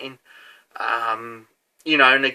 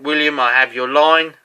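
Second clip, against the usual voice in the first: lightly imitated French accent, a bit louder; 4 dB louder than usual. French lad telling William he has his line, French accent. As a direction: put on a hint of a French accent. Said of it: "in his sort of French accent".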